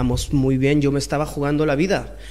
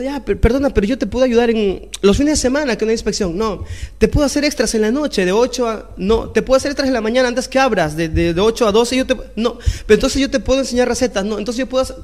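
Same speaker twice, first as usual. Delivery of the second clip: desperate pleading; 5 semitones higher than usual. Retold or imitated. Pleading for the job.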